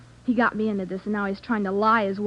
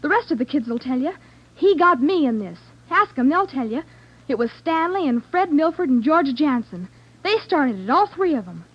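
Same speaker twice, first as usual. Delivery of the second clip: heated blaming; 5 semitones higher, 4 dB louder than usual. Acted. Girl blames boyfriend.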